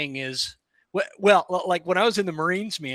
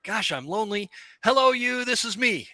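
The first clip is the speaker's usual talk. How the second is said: higher, mock-lonely call to the herd; lonely bull elk; 6 semitones higher than usual. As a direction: play a lonely bull calling out, pitched up. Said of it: "in a bull elk's brain ... I'm gonna be like".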